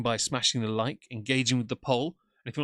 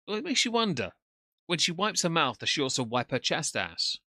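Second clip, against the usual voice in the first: mocking; 5 semitones higher, 4 dB louder than usual. Real, not acted. Mocking streamer's appearance.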